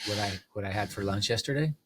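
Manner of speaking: light mock Italian accent, a bit quick. To a podcast host who asked for it, a light mock Italian accent. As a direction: ham up a gentle Italian accent, asking a question. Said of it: "talk to me in an Italian accent".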